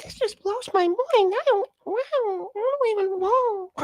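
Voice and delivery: put-on very high, breathless wide-eyed child voice; mocking the chatter as an awed little kid, squeaky and high. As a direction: sound like a kid overwhelmed at Disney World. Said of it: "sounds like some little kid at Disney World".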